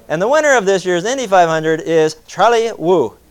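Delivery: announcer call retried. Shown as a demonstration. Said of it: "Let me try it".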